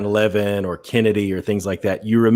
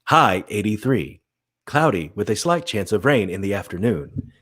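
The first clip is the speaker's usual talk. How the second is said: slow, even forecast read; weather announcer voice. Shown as a demonstration. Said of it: "So you have to be like".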